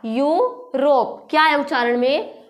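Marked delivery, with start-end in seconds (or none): 0.0-1.3 यूरोप said slowly and carefully, starting with a "यू" sound; slow clear pronunciation. Shown as a demonstration. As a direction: draw out यूरोप syllable by syllable to show its sound. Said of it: "तो यूरोप उच्चारण में क्या आया". (यूरोप को धीरे और साफ़ बोलना)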